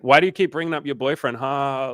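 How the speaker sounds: high, loud, quick imitation with fake laugh; pushy complaint. Imitating a suitor challenging her excuse, pushy. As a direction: badger her as a mock oblivious man.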